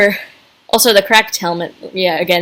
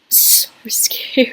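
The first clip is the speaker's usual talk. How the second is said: hushed; 4 semitones higher, slower than usual. Real, not acted. Gushing about a scary scene.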